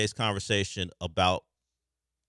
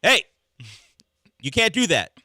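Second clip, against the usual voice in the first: raised warning shout; calling out; 9 semitones higher, 9 dB louder than usual. Retold or imitated. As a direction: call out to stop fans. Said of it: "I saw a video of the guy walking through, go".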